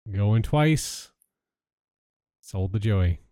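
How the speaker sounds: auction call, going once, going twice, sold; auctioneer. Acted.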